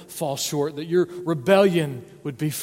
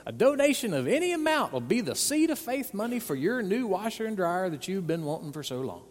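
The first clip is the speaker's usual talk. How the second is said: higher, hammed-up sales-pitch preacher voice; mock TV preacher; 5 semitones higher than usual. Pastor mocking a TV preacher's pitch to viewers, hammed-up and higher. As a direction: ham up a televangelist begging for seed money. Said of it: "the T V preacher with the great hair".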